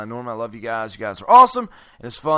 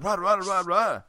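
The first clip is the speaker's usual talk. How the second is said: Schnitzel voice; 5 semitones higher, faster than usual. Retold or imitated. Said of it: "he gets pissed. He'd be like".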